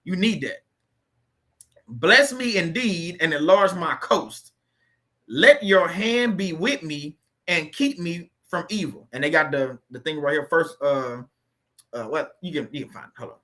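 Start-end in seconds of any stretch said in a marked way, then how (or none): 1.9-9.1 slow, deliberate prayer read aloud. Acted. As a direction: read the prayer slowly so they can repeat. Reads prayers slowly to repeat.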